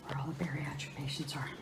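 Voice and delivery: hushed hospital whisper. Real, not acted. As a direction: whisper it so others stay undisturbed.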